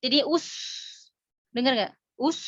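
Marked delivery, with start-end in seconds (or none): 0.3-0.5 "us" with a thick, heavy s; sin tebal. Shown as a demonstration. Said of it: "itu sinnya jadi tebal". 2.2-2.4 "Us" with a thick s through pouted lips; sin tebal. Shown as a demonstration. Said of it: "si bibir masih keadaan manyun".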